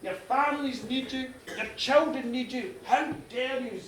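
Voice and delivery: indignant reproach, slowed at the start; acted angry scolding of the dead; growing anger. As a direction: accuse them with hurt outrage. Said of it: "his anger grew and grew".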